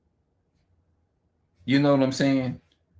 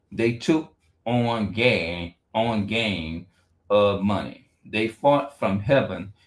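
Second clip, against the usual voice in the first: slow halting scripture reading; much slower than usual. Real, not acted. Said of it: "I'm just gonna read the Bible".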